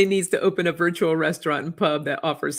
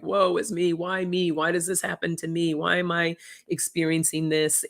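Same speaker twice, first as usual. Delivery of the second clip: mildly hammed-up woe-is-me lament; mock self-pity; 3 semitones higher than usual. Host imitating their old self years ago, mock self-pity. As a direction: lightly imitate a pitying little-violin plea. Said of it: "having that little violin go like".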